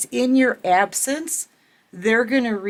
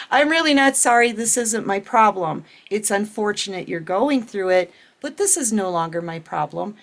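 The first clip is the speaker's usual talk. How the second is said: bold, quick not-sorry. Retold or imitated. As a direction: toss it off, unapologetic. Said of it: "I'll even look at people and say".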